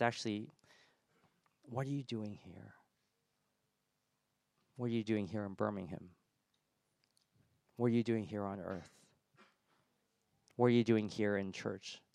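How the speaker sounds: gentle, unjudging questions; grace and love. Acted. God comes to us and asks, gently, with love. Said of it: "not speaking out of judgment, but out of grace and love".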